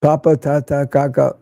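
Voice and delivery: papa, tata, kaka said crisp and clipped; crisp p t k drill. Shown as a demonstration. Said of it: "diadochokinetic rate exercises".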